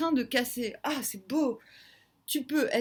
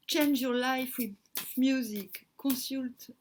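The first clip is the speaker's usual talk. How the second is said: words slurred around a dental retainer; reading English through a retainer; talking with a retainer. Real, not acted. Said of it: "C'est pas facile de parler anglais avec un, avec un appareil dentaire".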